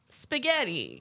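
lightly mocking, drawn-out Italian accent. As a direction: say it slowly in faux Italian. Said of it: "And I speak Italian".

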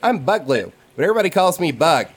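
put-on high, eager little kid voice; child voice. GM voicing a half-orc kid to the players, high childlike. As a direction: chirp it out like a curious small boy.

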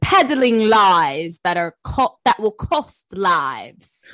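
mock British accent. Shown as a demonstration. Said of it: "I think it was sounded in an accent".

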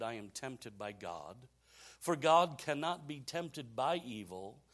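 slow, measured Bible reading; Scripture reading. Acted. Pastor reads the congregation a Bible passage, measured Scripture reading. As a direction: read the verse out deliberately.

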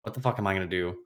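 whispered curses, half to himself; despairing whisper. Retold or imitated. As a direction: hush it like a man realising he's beaten. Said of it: "Miller's like".

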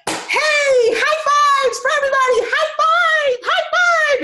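very high mock-shouted celebration; high-pitched, gleeful calling out; retold excited cheering. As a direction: whoop it out to a crowd. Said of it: "I'm like".

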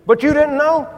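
can't believe they didn't know; surprised question. Retold or imitated. Preacher surprised in retold talk.

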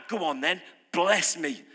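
low, offhand dare to God; a hint of a slouching skeptic; lazy dare. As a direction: toss it off like you don't care. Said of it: "if you're sat there like that".

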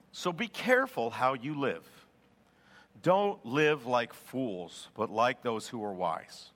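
low, measured verse reading, slowing down; scripture reading. Acted. Preacher reading Ephesians to the church, low and measured. Reads Bible verse aloud.

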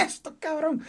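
high, laughing exclamation; reacting while watching the documentary, laughing; laughing disbelief. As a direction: laugh through the words in disbelief. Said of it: "Como que".

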